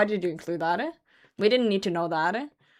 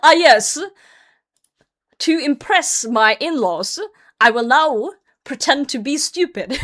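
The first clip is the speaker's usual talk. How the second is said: mock pompous; 3 semitones higher, 6 dB louder than usual. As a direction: play the smug fool. Mocking the poster's logic.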